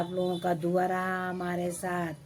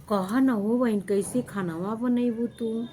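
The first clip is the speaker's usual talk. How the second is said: mock concerned neighbour; 4 semitones higher, 3 dB louder than usual. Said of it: "मैं बोलती हूँ".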